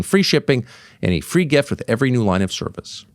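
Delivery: earnest host-read endorsement with lively emphasis; energetic podcast advertisement delivery; sponsor ad read. Real, not acted. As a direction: pitch a sponsor to loyal listeners. Reads a sponsor ad.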